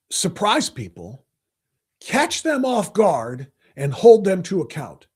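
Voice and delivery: slow, sneering echo of surprise people; drawn-out scornful quote; mocking repeat. Host echoing reporter's words slowly with scorn. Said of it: "What does that mean".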